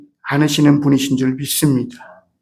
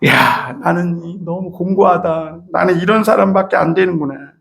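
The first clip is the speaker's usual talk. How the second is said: tearful lament. Retold or imitated. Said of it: "청계산 기도원에 올라가갖고".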